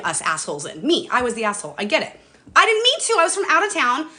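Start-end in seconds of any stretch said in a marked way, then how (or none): 2.6-4.1 high, loud, upset plea; getting emotional. Real, not acted. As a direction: explain yourself with real rising emotion. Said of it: "I'm getting emotional".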